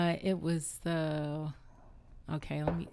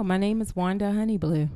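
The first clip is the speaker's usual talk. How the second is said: sultry voice; 3 semitones higher, 6 dB louder than usual. Real, not acted. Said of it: "You hear that sultry voice?".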